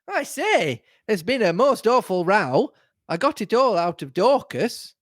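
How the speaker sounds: high, swooping, gossipy excitement; eager greeting. A narrator's reading. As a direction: burst in eagerly with fresh gossip. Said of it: "greeted me eagerly with".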